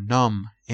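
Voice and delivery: numb said with a silent final B. Shown as a demonstration. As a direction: end numb on the M, no B. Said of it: "بی آخر تلفظ نمیشه".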